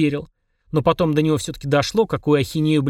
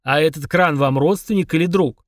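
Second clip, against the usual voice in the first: snide. Acted. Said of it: "ехидно спросил Фрундарок".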